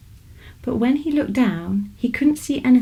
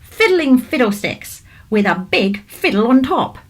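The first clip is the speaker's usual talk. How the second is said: louder, cross; 3 semitones higher, 3 dB louder than usual. Acted. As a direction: grumble it out, louder this time. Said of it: "louder this time".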